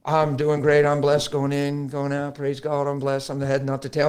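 lightly robotic, monotone recitation. Acted. Churchgoer quoting memorized scriptures, mildly robotic. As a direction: rattle off memorized phrases with little inflection. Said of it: "almost sounds like they're a robot".

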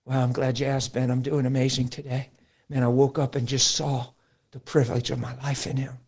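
authentic. Acted. Believer telling Ben how he is doing, authentic. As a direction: answer simply and sincerely. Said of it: "just talking about real authentic".

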